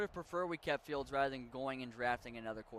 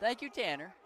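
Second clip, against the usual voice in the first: shout; 6 semitones higher, 4 dB louder than usual. Real, not acted. Excited shout after laugh.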